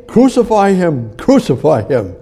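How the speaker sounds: loud, high crucify chant; crowd shouting. Retold or imitated. The hateful crowd demands crucifixion, loud shout. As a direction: shout it like an angry mob. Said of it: "The crowd hated him".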